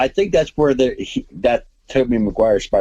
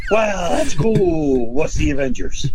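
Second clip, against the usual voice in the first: mock clueless; 12 semitones higher than usual. The other Spider-Men to Tobey, mock clueless high voice. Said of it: "They're like".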